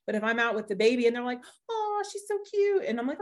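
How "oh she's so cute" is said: high-pitched imitated cooing; gushing stranger. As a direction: coo over a baby in a put-on high voice.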